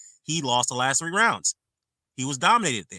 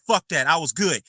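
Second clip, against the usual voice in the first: angry retort; 4 dB louder than usual. Retold or imitated. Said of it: "He's like".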